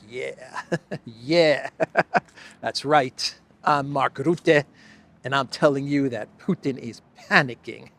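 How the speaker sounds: hammed-up swagger, loud and laughing; mock tough guy. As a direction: strut it like a tough guy after a mic drop. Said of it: "And then he's like".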